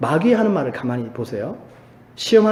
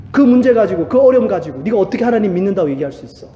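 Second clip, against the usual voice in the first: taunting devil; 4 semitones higher than usual. Retold or imitated. Preacher voicing the devil doubting believers, rising taunting jeer. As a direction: needle the believer, pressing harder each line. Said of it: "마귀가 똑같이 우리에게 속삭인다".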